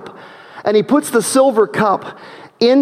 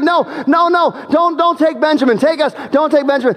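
pleading; 6 semitones higher than usual. Acted. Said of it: "And they plead".

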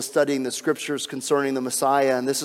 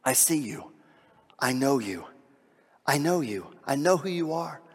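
tender Jesus voice. Acted. Jesus reassuring Nathanael under the fig tree, tender and hushed.

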